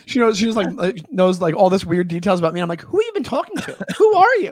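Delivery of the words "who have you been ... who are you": high-pitched mock bewilderment; incredulous. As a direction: demand it in disbelief, voice jumping up. Acts baffled reaction to knowing stranger.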